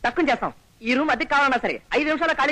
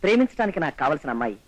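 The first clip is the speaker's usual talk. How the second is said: much lower-pitched musing voice; dreamy description; 8 semitones lower than usual. Acted. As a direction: describe the dream girl in a low voice. Describing his ideal girl to friend.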